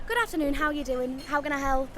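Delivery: Geordie accent toned down for the phone; polite call-centre greeting, Geordie softened. Shown as a demonstration. Call-centre worker greets a caller, Geordie accent dropped. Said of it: "my Geordie accent drops".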